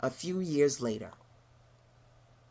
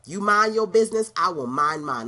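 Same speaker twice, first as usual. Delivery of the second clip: loud firm scolding; stern Huxtable mom; 6 dB louder than usual. Retold or imitated. Mom telling a critic to mind her business. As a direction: lay down the law like a TV mom. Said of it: "That clear Huxtable came out of me".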